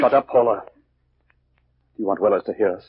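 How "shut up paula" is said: angry hush. Acted. Husband silences hysterical wife.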